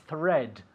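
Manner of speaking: "Thread" begun with tongue out for TH. Shown as a demonstration. Teacher demonstrates the spelling T H, tongue-out TH on "Thread". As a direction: say "Thread" with a clear dental TH. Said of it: "it begins with T H".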